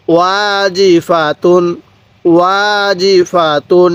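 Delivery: ওয়াজিফাতুন drawn out very slowly, syllable by syllable; slow recitation. Shown as a demonstration. Teacher reciting slowly for students to repeat. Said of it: "আমার সাথে সাথে পড়ুন".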